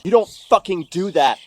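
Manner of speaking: angry, emphatic reproach; real indignation. Real, not acted. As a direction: spit it out, outraged and wounded. Angry outburst about her reply.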